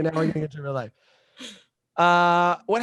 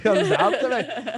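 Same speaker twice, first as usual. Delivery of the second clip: put-on slow, higher Scottish accent; 5 semitones higher, slower than usual. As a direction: stretch it out like a Scottish Viking. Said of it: "That's so good".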